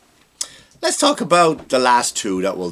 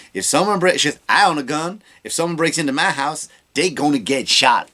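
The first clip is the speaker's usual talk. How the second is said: a hint of her folksy tough talk; Kamala Harris impression; 3 semitones higher than usual. Podcaster mimics Kamala Harris boasting about her gun, mildly mocking. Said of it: "I'm gonna do an impression of her".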